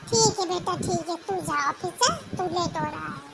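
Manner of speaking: a hint of an indulgent older mother, a little low; soothing mom who excuses her daughter, mildly played; lightly voiced old mother. Mother role sends son off. (हल्की सी बुज़ुर्ग माँ की आवाज़)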